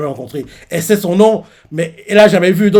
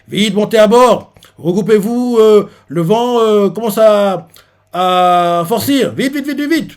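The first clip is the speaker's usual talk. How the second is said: urging shout; 5 semitones higher, 3 dB louder, slower than usual. Retold or imitated. Soldier urging boarding.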